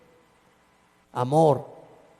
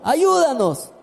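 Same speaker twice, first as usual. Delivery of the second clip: 1 pleading neighbour; 7 semitones higher, slower than usual. Retold or imitated. Neighbour begging the pastor.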